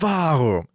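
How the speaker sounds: Warum? said with a falling cadence. Shown as a demonstration. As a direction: let Warum? drop at the end. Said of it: "With, like, a falling cadence".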